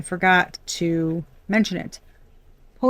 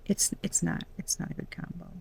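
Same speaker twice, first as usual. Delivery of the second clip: soft unvoiced whisper, much softer; whispered confession; 3 semitones lower, 14 dB quieter than usual. Real, not acted. Reader confiding a grudge against air signs, whispered. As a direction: let it slip as a hushed secret.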